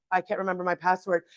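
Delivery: put-on low, soft sulky kid voice. Kid excusing himself to the parent, sulkily soft. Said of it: "it's like".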